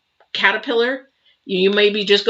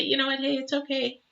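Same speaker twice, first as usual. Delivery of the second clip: gentle reassurance; 7 semitones higher, 8 dB quieter than usual. Retold or imitated. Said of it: "Just say".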